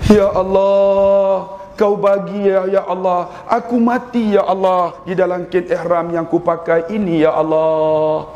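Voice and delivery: put-on slow, drawn-out prayer of an old pilgrim; old man's prayer. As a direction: stretch each ya Allah, half sung. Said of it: "dia doa apa?".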